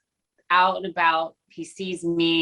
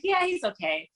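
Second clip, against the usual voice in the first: coked-out wife voice; 14 semitones higher, 4 dB quieter than usual. Retold or imitated. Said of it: "And I'm like".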